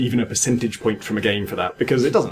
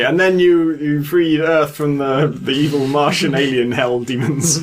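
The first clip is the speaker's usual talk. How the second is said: slow, overblown game-ending narration, raised and loud; mock epic ending text; 4 semitones higher, 3 dB louder, slower than usual. Mocking Quake's ending text to cohost, slow grand announcer. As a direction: read it like a cheesy victory screen. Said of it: "It would say".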